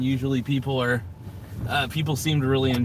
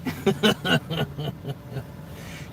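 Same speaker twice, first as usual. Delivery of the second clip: real laugh; 6 dB quieter than usual. Real, not acted. Laughs at own joke.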